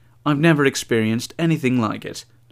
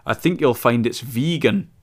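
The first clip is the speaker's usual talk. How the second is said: mock posh English. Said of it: "posh young English girl".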